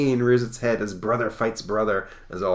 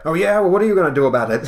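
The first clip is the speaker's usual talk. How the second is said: loud, high, fast retort; hammed-up quarrelsome comeback; picking a fight; 9 semitones higher, 10 dB louder, much faster than usual. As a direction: fire back like a mock tough guy. Stranger picks a street fight.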